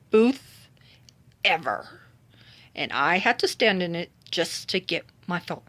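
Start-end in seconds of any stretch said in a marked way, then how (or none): 0.1-2.0 whisper. Real, not acted. Aside about longest line.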